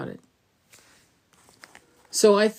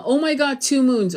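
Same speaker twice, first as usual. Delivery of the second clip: higher mock-panicked gasp; 5 semitones higher than usual. Mocking online posters over two moons, mock panic. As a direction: parody fake alarm. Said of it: "and going".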